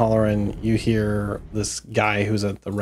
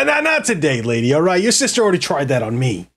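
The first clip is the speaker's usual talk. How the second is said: dismissive guard. Acted. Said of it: "He's like".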